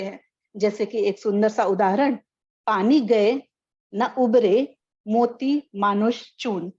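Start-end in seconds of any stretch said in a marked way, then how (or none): 2.7-6.7 slow, measured doha recitation; slow poetic recitation; reciting a couplet. Shown as a demonstration. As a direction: read Rahim's couplet slowly, like a verse. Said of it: "रहीम के दोहे से".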